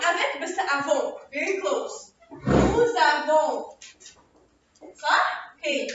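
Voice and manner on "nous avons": "Nous avons" drawn out slowly; slow, stretched-out correction of "Nous avons"; slow modelling. Shown as a demonstration. Teacher models the corrected French form.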